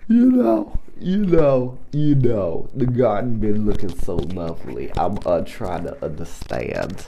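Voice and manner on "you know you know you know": high sing-song. Acted.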